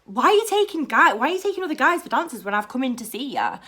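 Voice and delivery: hurried mock indignation; mad. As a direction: imitate a put-out, jealous customer. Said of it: "he'll get mad. He'll be like".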